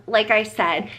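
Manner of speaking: usual speaking voice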